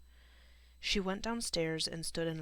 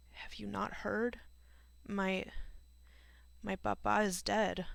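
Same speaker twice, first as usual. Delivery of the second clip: higher, halting, on the edge of tears; choking back tears; 4 semitones higher than usual. A narrator's reading. Grieving girl breaks news of her father's death, choking back tears. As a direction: struggle to get the words out without crying. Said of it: "choking back tears".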